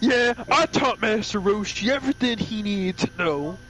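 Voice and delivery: a hint of a braggart champion; lightly voiced boasting. Mister Satan claiming he taught Master Roshi, mock boasting.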